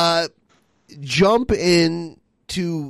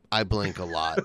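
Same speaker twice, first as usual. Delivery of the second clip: I blink a lot, said softer and lower; quiet admission; 8 semitones lower, 6 dB quieter, faster than usual. Real, not acted. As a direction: concede it softly, giving in. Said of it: "But you're right".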